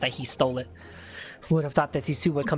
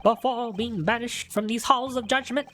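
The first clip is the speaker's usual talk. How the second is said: put-on theatrical old man; 4 semitones higher than usual. Dramatic voiced witness monologue.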